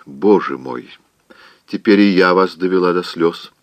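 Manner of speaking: tearful whispered lament; a half-breathed weepy cry; sobbing whisper. Acted. Aunt frets she made Scarlett cry, whispering tearfully. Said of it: "всхлипнула тётушка Питтипэт".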